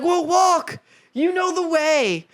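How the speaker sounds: lightly voiced Eurydice. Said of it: "she's like".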